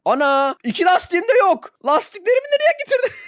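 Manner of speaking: indignant shocked complaint; outraged disbelief. Real, not acted. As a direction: cry out in disbelief. Tires gone, outraged.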